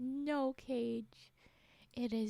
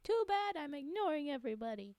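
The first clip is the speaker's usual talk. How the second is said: high, punchy start, then quicker; mock defiant dismissal; 4 semitones higher, 3 dB louder than usual. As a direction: brush them off with playful defiance. Acting out rebuff to button-pushers.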